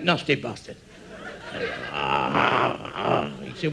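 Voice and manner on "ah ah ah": very low, rough groans; low growling groan. Acted. Telling a Doberman joke, low growling groans. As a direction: groan it from deep down.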